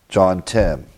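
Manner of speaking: whispered aside. Real, not acted. Muttering the reference to himself.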